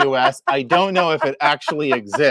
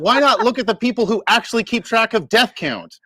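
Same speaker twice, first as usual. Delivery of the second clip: incredulous; 6 semitones higher than usual. Real, not acted. Incredulous mock question.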